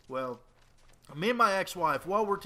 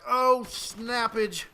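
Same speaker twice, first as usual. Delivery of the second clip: mock dismay; 5 semitones higher, much slower than usual. Retold panic after sharting.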